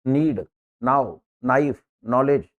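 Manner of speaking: slow, clear नीड नाउ नाइफ नॉलेज with no k sound; careful teacher's demo of the silent k. Shown as a demonstration. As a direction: start नाइफ and नॉलेज on a clean n. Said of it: "इनका उच्चारण एन से शुरू करेंगे".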